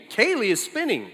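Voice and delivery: put-on a light childlike sing-song, "Kaylee is jumping"; mock toddler. Father imitating his daughter announcing herself, lightly childlike. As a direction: lightly play the proud little girl. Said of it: "announce everything she did in the third person".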